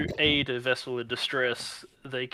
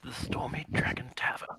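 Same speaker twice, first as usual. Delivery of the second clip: breathy stage whisper; 5 dB quieter than usual. Acted. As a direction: hush it like a secret. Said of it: "I don't know why I'm talking like this".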